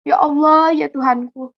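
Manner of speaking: imploring call to God; retold plaintive prayer. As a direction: lightly voice a mother's plea in prayer. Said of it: "dia berdoa seperti itu". (seruan doa ibu yang memelas)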